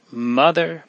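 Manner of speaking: mother wailed high and rising; frantic wail. A narrator's reading. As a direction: cry mother out high and desperate. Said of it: "wailed the frantic child".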